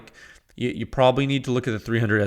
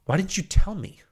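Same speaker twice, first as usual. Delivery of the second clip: mock whine; 7 semitones higher than usual. Mock complaint to viewers.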